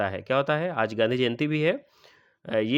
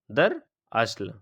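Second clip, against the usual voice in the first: दरअसल drawn out very slowly, syllable by syllable; 3 semitones lower, much slower than usual. Shown as a demonstration. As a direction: spell out दरअसल slowly for students.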